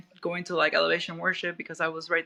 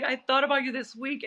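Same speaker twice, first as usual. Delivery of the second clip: excited; 6 semitones higher than usual. Retold or imitated. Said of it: "I was like".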